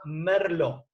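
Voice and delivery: Merlot as "mer-LO"; silent final T. Shown as a demonstration. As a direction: say "Merlot" with no T at the end. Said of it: "Así que ténganlo en cuenta".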